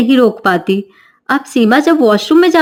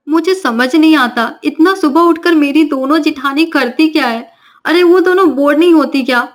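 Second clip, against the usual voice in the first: put-on cheeky young bride; 4 semitones higher than usual. Navya answers back.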